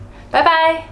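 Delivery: 轻松随意地道别; casual goodbye chat. Shown as a demonstration. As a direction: play both friends signing off lightly. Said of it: "We usually end our conversations like".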